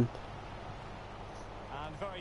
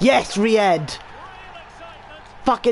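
excited cheer; 7 semitones higher than usual. Real, not acted. Celebrating a goal chance.

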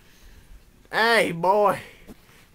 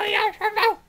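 put-on drunk shout; 6 dB louder, faster than usual. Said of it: "Woody, are you drunk?".

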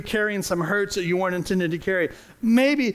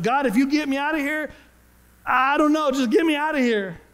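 higher-pitched plea, lightly acted; mildly desperate plea; 6 semitones higher than usual. Jonah bargaining with God from the fish, mildly desperate. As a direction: plead lightly as a man trapped.

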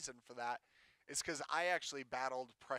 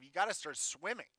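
a touch louder and more insistent, rising at the end; firmer self-command; 3 semitones higher, 4 dB louder than usual. Retold or imitated. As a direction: order yourself to swim, pushing harder. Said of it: "I remember telling myself".

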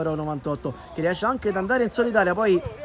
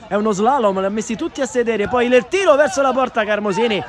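excited; 4 semitones higher than usual. Real, not acted. Solo dribble through defence.

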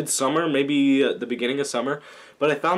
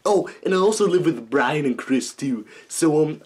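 Stewie voice; 2 semitones higher than usual. Shown as a demonstration. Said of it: "I'm gonna stop talking like a".

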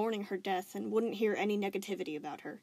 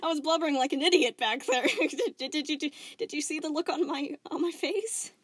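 high, loud, stammering laughing talk; forced cheer; 9 semitones higher, 7 dB louder than usual. Acted. Spinel insisting she's fine, forced laughter. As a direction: pretend it's all a joke.

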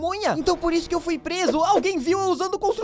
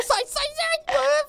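being chased; 8 semitones higher, much slower than usual. Acted. Dogs chase him.

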